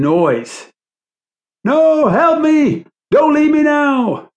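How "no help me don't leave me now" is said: high, drawn-out desperate plea; frantic high-pitched cry; loud, insistent scream. A narrator's reading. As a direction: scream not to be abandoned. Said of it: "The loud and insistent voice".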